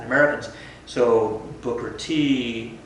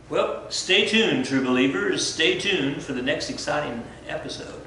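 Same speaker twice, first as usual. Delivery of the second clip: mock announcer; 3 semitones higher than usual. Mock serial announcer sign-off.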